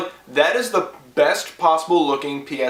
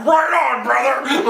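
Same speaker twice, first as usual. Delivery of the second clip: cheering shout; 9 semitones higher, slower than usual. Acted. Quoting cheering characters.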